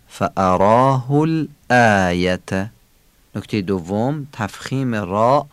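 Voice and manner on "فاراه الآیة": فاراه الآیة slower, with clear stops on each hamza; glottal stops. Shown as a demonstration. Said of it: "دو تا نبر همزه داریم".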